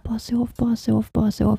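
soft, hushed repeated begging; acted soothing plea. Mother begging son to sleep, hushed pleading. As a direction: lull a child back to sleep, softly.

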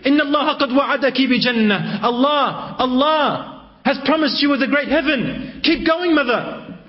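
a hint of a small child urging his mother to be patient; infant's voice. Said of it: "made her child or infant speak".

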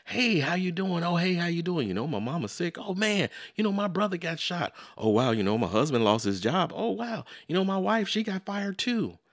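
mock gloomy chat, played big and loud; misery competition. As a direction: act out friends one-upping each other's troubles. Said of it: "It sounds more like this".

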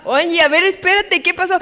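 lightly voiced worried parent; a hint of mom asking what happened; parent soothing. Preacher voicing her parents calming a crying child. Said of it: "Y ahí tenías a mi mamá, a mi papá".

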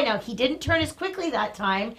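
normal talking voice

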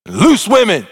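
slow, pointed "devoured your livelihood"; scandalized accusation. Acted. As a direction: linger on each word to shame the brother. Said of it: "appealing to his father's sense of worth".

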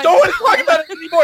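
fast, loud, high protest broken by laughter; laughing protest. Acted. A guest begs the host to drop the hand, laughing shout. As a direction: shout it out while cracking up.

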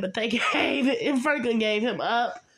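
laughing through the words. Real, not acted. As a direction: chuckle while telling it. Laughs retelling betrayal.

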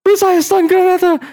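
high, loud fake-Russian battle shout; hammed-up Russian voice line; mock Russian soldier. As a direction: yell gibberish like a Russian game soldier. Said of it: "The Russian guys too".

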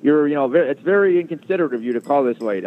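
lightly voiced annoyed tycoon; imitating a scolding boss.

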